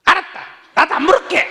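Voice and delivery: high, loud sulky comeback; huffy retort. Pretend. Wife sulking back at her husband, high and loud. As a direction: throw it back in a huff.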